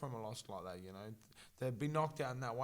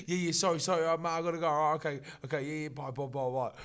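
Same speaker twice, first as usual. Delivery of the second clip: imitating hurried hang-up; 3 semitones higher, 4 dB louder than usual. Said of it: "Evan hanging up".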